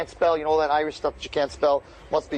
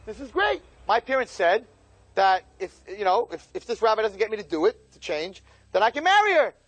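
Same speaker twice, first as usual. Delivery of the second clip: gleeful relief; 5 semitones higher than usual. Retold or imitated. Groom delighted by rabbi's advice.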